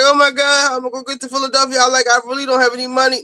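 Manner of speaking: put-on fast, high, breathless retelling of a panicked girl; mock distressed plea. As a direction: rush it out like a lightly voiced stranded girl. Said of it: "and she was crying".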